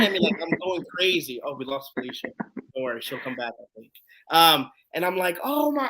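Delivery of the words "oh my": high-pitched reenacted amazement; star-struck. Fan spots his idol walking up, star-struck. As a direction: act out being awed, voice jumping up.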